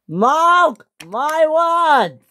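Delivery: slow, high, loud; furious vow. Acted. James vowing revenge, shouting. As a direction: hammer each word, high. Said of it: "James was the maddest engine on Sodor".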